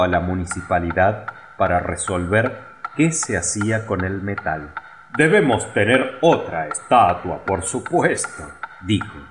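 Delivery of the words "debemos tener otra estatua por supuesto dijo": vain mayor. A narrator's reading. Mayor wants own statue.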